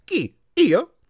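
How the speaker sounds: short, high incredulous questions; bewildered surprise. A narrator's reading. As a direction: ask in baffled disbelief, rising. Confused patient reacts to being teacher.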